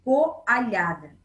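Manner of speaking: Coalhada drawn out slowly and loudly, co-a-lha-da; slow, careful reading. Shown as a demonstration. Teacher reading the word Coalhada slowly to children. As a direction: spell out Coalhada for the kids, slowly. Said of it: "coal-, e coalhada".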